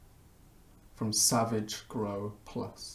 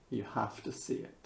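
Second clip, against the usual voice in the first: hushed; 2 semitones lower, 11 dB quieter, faster than usual. Pretend. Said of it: "A dramatic reading by me".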